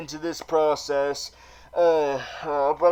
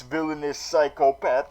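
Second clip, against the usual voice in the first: ordinary delivery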